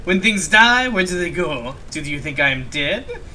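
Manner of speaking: put-on amateur theatrical French accent; bad French accent. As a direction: ask it in an attempted French accent. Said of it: "suffer through this French accent".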